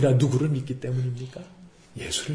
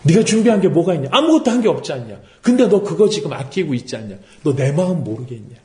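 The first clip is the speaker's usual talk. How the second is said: lightly voiced divine scolding, pitched up then easing down; God; 3 semitones higher than usual. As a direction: reproach a sulking prophet, mildly exasperated. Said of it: "하나님 뭐라고 말씀하십니까".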